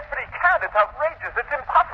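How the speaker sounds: high, outraged disbelief; shocked disbelief. Acted. Assistant hears his professor was fired, shrill shock. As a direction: squeal it as if you can't believe it.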